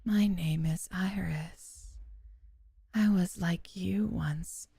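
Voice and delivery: slow, unvoiced purring whisper. Strange girl whispering approval to the narrator. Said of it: "A whisper coats the back of my ear".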